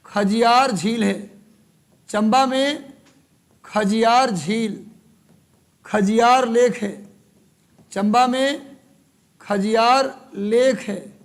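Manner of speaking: slow, drawn-out dictation in short chunks; teacher stretching words for note-takers; classroom dictation. Real, not acted. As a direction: dictate slowly, pausing after each phrase.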